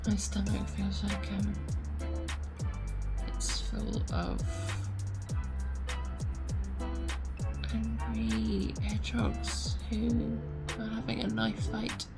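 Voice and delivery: sick and in pain. Real, not acted. In pain, rough night.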